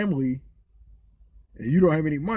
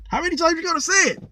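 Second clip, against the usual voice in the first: exasperated; 13 semitones higher, faster than usual. Real, not acted. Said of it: "complaining about the cop".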